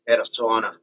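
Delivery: casual, lightly put-on Australian accent; a rough stab at Australian; Aussie accent. Shown as a demonstration. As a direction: try out a loose Aussie accent. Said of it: "Might be a bit of my Aussie".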